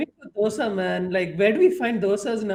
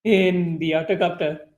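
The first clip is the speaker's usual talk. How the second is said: evil smile; 4 semitones lower than usual. Acted. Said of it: "giving a very evil smile".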